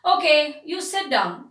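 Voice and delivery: mildly irritated order to sit; a little upset. Shown as a demonstration. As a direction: say it as if a little put out. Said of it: "upset for something, and I say like this".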